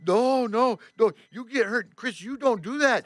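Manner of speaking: high-pitched imitation of an alarmed French tourist; worried Frenchman. French guy warning the driver off lifting the rock, high and alarmed. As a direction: plead with him in a high mock-French voice. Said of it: "the French guy".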